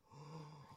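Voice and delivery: short, soft gasp of shock; mock shocked gasp. Acting out Hans learning who John is, mock shocked gasp. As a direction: suck in breath as if stunned. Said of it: "You saw the shock on his face".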